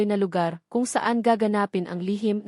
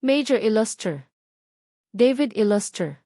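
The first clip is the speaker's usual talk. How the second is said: mild villain yell. Acted. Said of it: "sigaw ni Mayor Garcia".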